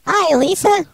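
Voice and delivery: voice-changed woman's voice; fake female voice. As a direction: play a woman over the phone. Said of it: "I can stop with this whole charade thing".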